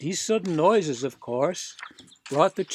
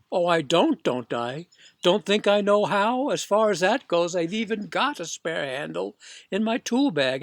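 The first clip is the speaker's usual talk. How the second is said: louder, prickly workman; louder, touchy repairman; defensive serviceman; 2 semitones higher, 4 dB louder than usual. Acted. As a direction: bristle at the insult.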